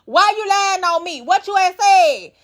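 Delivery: imitating Dolly snapping back; mad accusing. Dolly calling out Elsie on the bus, mock angry. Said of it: "Dolly done got mad".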